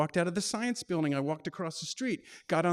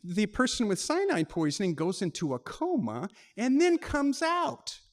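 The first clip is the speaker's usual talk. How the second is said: operator reading aloud; 4 semitones higher, 3 dB louder than usual. Retold or imitated. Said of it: "And she said".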